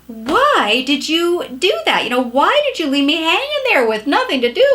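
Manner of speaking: mock reproachful wife grilling her husband; accusing complaint. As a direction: demand an explanation from the husband. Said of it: "if I ask it that way".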